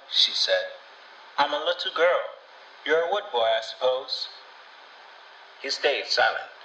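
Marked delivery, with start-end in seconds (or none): 1.4-4.3 put-on lightly higher young girl; a hint of an eager little girl. A narrator's reading. Little girl speaking to boy.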